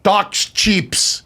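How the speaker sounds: put-on actress's French-accented English. Actress delivers her porn line, French accent. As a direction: say it with a French accent, extra s on "cheaps". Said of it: "because of her French accent".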